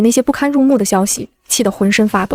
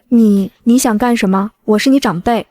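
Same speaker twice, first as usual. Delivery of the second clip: stammering fright. Acted. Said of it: "吓得三爷爷立刻从地上爬了起来".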